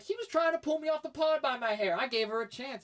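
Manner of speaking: Bianca. Retold or imitated. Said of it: "And she was like".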